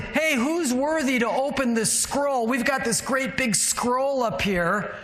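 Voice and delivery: lightly voiced God. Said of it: "God's looking around and saying".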